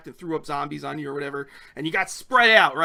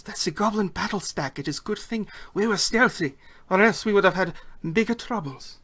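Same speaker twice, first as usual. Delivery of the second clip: put-on higher-pitched accented goblin woman; relieved goblin guard; 3 semitones higher than usual. Goblin guard explains the battle stack to escapee, character voice.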